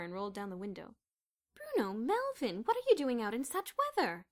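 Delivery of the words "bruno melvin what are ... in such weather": loud, high worried call from the car. A narrator's reading. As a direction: call out over the rain. Mrs Sturgeon calling from car.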